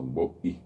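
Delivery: "bo-i" split by a glottal catch; glottal stop demo. Shown as a demonstration. Teacher repeating the puso example "bo-i". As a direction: stop the breath between o and i in "bo-i". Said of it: "de la o y la i en este caso".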